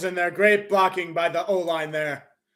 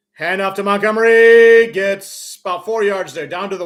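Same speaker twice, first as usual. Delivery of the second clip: excited play call; 3 semitones higher, 10 dB louder than usual. Real, not acted. Announcer calls a handoff to the runner, excited and loud. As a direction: shout the handoff as it happens.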